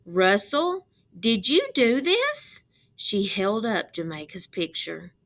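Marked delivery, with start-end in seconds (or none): 0.1-2.6 stern teacher. A narrator's reading. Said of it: "Missus Worth hurried over".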